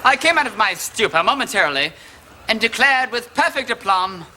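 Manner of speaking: lightly voiced languid Oscar Wilde, a mild hint of him. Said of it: "the one and only Oscar Wilde".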